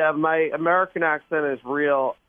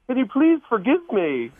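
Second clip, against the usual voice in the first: higher, put-on British accent; fake British accent; 9 semitones higher than usual. Shown as a demonstration. Randy begs Beth's forgiveness on request, in fake British accent. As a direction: apologise in a hammed-up British accent. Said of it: "hear just a little bit of your fake British accent".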